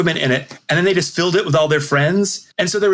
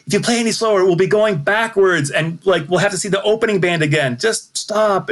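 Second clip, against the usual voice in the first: mock heckling yell; 5 semitones higher than usual. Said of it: "yelling at them, going like".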